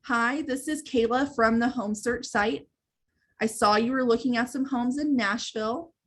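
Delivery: each phrase laid out slowly and evenly; walk through the script slowly, no sell yet; slow and plain. Shown as a demonstration. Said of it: "So I'll say that now again slowly".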